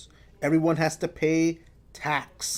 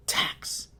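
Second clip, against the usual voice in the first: quiet model word; 6 dB quieter than usual. Shown as a demonstration. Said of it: "Say it with me".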